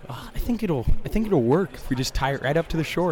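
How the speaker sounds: high, mock dopey voice; mocking Cradge. Teasing the friend who insisted on tying the boat, high mock voice. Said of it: "Cradge is like".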